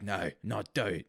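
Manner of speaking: slow, half-hearted Cockney; tentative attempt at a Cockney accent. Imitating Bob Hoskins on request of nobody, half-hearted Cockney. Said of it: "I'm not gonna do fucking Cockney accent".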